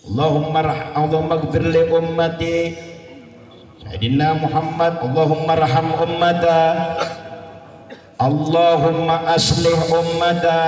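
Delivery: prayerful recitation; doa dilantunkan. Acted. (doa dilantunkan khusyuk)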